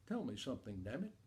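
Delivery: low, hushed and sly; soft, under-the-voice swearing; quiet repeat of dad's curse. Retold or imitated. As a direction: drop it low, like a kid slipping in a forbidden word. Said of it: "I turn to my sister and I say".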